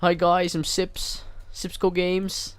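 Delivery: badly faked Canadian YouTuber intro; bad Sips impression. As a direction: do a poor impression of a streamer. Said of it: "That was a really bad impression".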